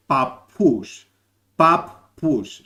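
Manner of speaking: papous slowly, long held p; papous drawn out, stretching the p; slow Cypriot pronunciation. Shown as a demonstration. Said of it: "I said it slowly".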